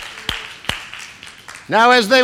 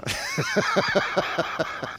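quiet chuckle at his own joke; soft laugh; 13 semitones higher, 11 dB quieter than usual. Real, not acted. Preacher chuckling at his own joke, soft laugh. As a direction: let a small laugh slip out.

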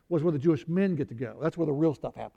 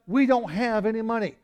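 Peter with a shrugging yeah, raised higher; mock Peter; 5 semitones higher than usual. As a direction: toss off the line as Peter, higher than usual. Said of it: "Peter and John go".

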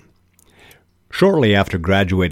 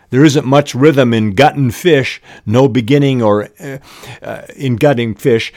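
reading aloud; 6 semitones higher, 5 dB louder than usual. Acted. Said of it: "Roddy Doyle presents dialogue this way".

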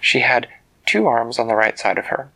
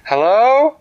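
high, loud questioning call; 11 semitones higher, 6 dB louder than usual. Acted. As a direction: call to someone unseen, swooping up. Winona calls to unseen voice.

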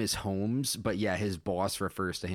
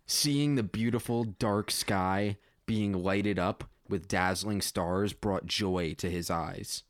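measured read-aloud storytelling; story narration. A narrator's reading. Writer reading own space story to listeners, measured narration. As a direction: read it out plainly as prose.

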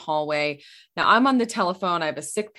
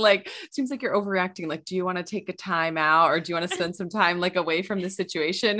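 parent phrase; 2 semitones higher than usual. Retold or imitated. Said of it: "something that we say".

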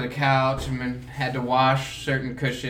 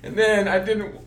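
high, louder imitation of an upset friend; mock mad complaint; 6 semitones higher, 4 dB louder than usual. Friend lamenting the lunch he planned on, mock mad. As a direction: whine it in hammed-up indignation. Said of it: "Why are you mad?".

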